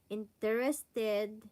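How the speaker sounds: slow, carefully spaced "Interested"; slow English word. Shown as a demonstration. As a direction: say "Interested" slowly, syllable by syllable. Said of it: "interested is interesado".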